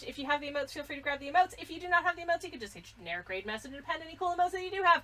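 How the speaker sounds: very fast, rushed, rattled off at top speed. A streamer rushes through the raid message before the channel gets raided, speaking very fast. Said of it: "I am speaking very fast".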